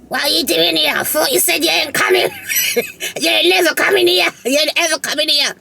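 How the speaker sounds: son's startled mock disbelief; imitating Angelo. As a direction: play his astonishment. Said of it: "Angelo, like".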